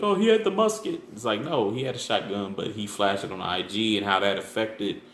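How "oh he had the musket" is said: high mock gasp of people gossiping; lightly voiced gossiping crowd; mocking people's take. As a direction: toss it off like a rumour everyone repeats. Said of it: "they're like".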